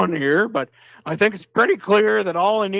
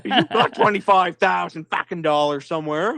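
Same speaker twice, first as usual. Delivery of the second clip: laughing. Real, not acted. Laughing while pleading for money.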